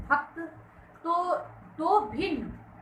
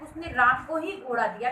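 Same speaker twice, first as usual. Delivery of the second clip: राम को ही picked out from the sentence; single out राम with emphasis; stress on राम. Shown as a demonstration. Teacher explaining it was nobody else, stress on राम. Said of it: "किसी दूसरे को नहीं".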